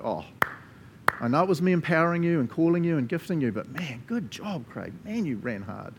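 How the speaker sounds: proud Jesus. Pretend. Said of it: "hear him go".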